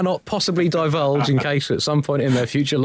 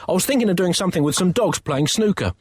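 eager; 6 semitones higher than usual. Acted. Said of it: "yipped the young artist".

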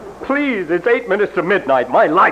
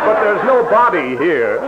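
lightly voiced brusque detective. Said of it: "I'm Ellery Queen".

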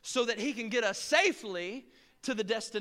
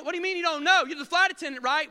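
mock outraged passenger; indignant passenger; 5 semitones higher, faster than usual. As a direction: press her for answers. Passenger confronts attendant.

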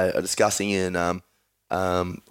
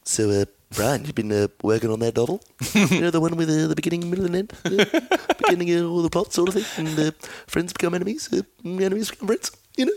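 needling cartoon baby impression, climbing higher; Stewie Griffin; 7 semitones higher than usual. Host teases Brian about his novel, rising Stewie impression. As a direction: start level, then climb into a teasing high voice. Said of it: "I can do Stewie".

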